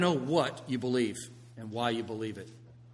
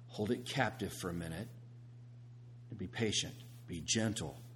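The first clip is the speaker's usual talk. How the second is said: soft, lower calming talk; gentle; 4 semitones lower, 7 dB quieter than usual. Acted. Calming a hothead called Andrew, gently. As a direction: settle him down gently in a low, soft voice. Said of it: "in a gentle and respectful way".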